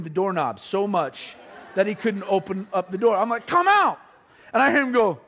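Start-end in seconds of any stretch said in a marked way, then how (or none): 3.5-4.0 taunt. Retold or imitated. Taunting brother locked in room.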